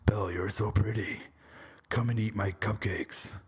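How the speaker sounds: hammed-up monster voice, slowing at the end; Beast voice. Reviewer in beast mode sweet-talking Belle, mock Beast voice. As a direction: play a silly, improvised movie Beast. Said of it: "So I got my beast mode on".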